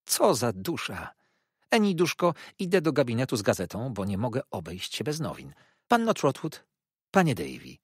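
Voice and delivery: high, loud meddling matron's voice; self-satisfied mother-in-law boasting; fussy old mother. Acted. Markleham keeps talking, high voice.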